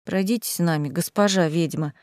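polite request. A narrator's reading. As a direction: gently invite the witch along. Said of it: "вежливо попросили они".

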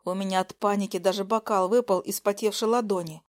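ordinary delivery, nothing marked

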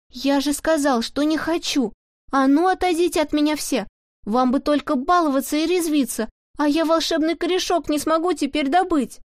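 furious shout. Acted. Pavlik yelling furiously at the pestering jesters. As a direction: drive them all away with shouting. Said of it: "буквально орал на".

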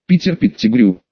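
plain reading voice

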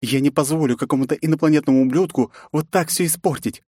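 put-on fierce young princess, rising; defiant young woman. A narrator's reading. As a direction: spit out her anger at the intruder. Nastya defends her family.

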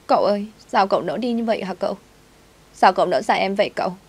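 a hint of a tearful girl asking him not to leave; pleading servant girl.

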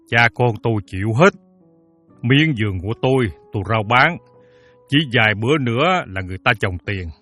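mild, hesitant entreaty; pleading. Acted. Father begging the moneylender for a few days, earnestly. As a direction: beg politely, with little hesitations. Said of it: "Ông Sáu năn nỉ".

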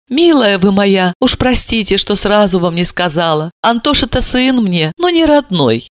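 apologetic. Acted. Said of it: "повинилась".

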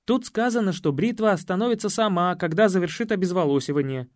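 ordinary delivery, nothing marked

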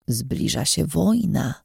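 slow, hoarse trance-like prophecy. Acted. Old seer to the narrator, hoarse slow prophecy. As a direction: rasp it out slowly like an oracle. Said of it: "Jej głos był bardziej zachrypnięty niż zwykle".

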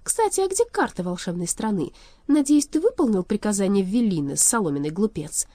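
lightly voiced imperious enchantress; brisk taunting villainess; mocking young sorceress. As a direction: demand it with a touch of scorn.

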